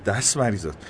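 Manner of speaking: butter up the mayor; simpering sycophant voice; fawning. A narrator's reading. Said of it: "نوری چاپلوسانه گفت".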